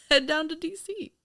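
laughing through a mock ad pitch; giggling tourism-ad tag line. Real, not acted. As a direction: chuckle it out like a tourist slogan.

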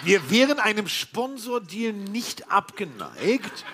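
laughing through a cheeky sponsor plea; chuckling appeal, high and slow. Real, not acted.

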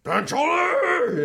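high, drawn-out mock holler; mock outcry. Seeing his shirt on some talk show, mock outcry. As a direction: wail it out, high and stretched.

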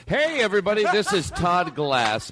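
high, stretched radio greeting; station identification. Pretend. Host doing a station identification for listeners, announcer-like. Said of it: "when I have to do these station identifications".

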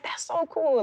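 telling friends to enjoy Memphis; mock cheerful high. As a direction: play it breezy and unaware. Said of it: "And I was like".

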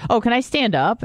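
mild panic. Retold or imitated. Patient freaking out at a blood test, mildly panicked. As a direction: retell your mild freak-out. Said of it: "I start freaking out".

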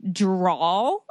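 "drawl" said for drawer, ending in an L; husband's accent. Retold or imitated. Wife imitating her husband's word drawl, regional pronunciation. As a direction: say "drawl" slowly in place of drawer. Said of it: "married to a man who says".

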